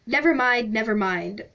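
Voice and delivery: cheerful, booming reassurance; beaming. Acted. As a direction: brush it aside with a big smile. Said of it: "beamed the stranger".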